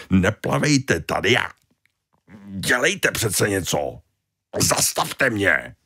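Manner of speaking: lightly voiced, commanding, slow at the end; a hint of ordering them about; bossy Tony. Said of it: "poroučel". (lehce panovačný Tony)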